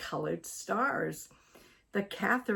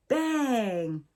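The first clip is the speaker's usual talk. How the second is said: startled bang cry; 5 semitones higher than usual. A narrator's reading. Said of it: "She gasped and screamed".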